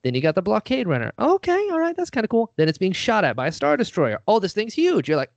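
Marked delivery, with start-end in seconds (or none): 1.2-2.5 much higher, delighted squeak; high mock-amazed "okay"; impressed viewer. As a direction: pitch way up like a wowed fan. Voicing a viewer's impressed reaction.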